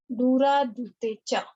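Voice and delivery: slow, measured chant of a Sanskrit rule; teacher reciting a Sanskrit sutra slowly; sutra recitation. Shown as a demonstration. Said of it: "teacher recites the sutra".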